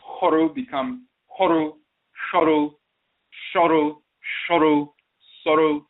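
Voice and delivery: "Horu" turning to "Shoru", then "Soru"; sound shift demonstration. Shown as a demonstration. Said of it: "came to be pronounced".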